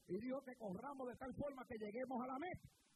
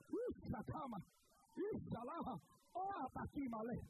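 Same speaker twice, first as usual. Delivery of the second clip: speaking in tongues. Real, not acted.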